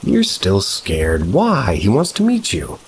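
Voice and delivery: put-on smiling girlfriend. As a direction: coax him gently, as if he's silly to be afraid. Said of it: "Smiling, she says".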